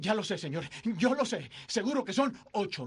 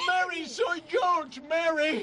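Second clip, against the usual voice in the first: desperate plea; 5 semitones higher, slower than usual. Acted. George pleads desperately with Mary.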